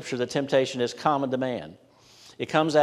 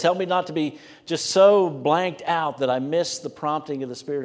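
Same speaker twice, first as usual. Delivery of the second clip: rising, louder earnest plea to the Lord; pleading prayer; 4 semitones higher, 4 dB louder than usual. Retold or imitated. Preacher voicing a prayer for help, earnest pleading. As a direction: beg God not to let you miss it. Voiced prayer quoted in sermon.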